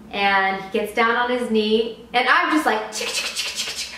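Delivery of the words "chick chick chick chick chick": whispered camera clicks. Retold or imitated. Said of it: "while crying, fully crying".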